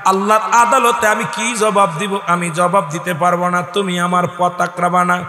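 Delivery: normal talking voice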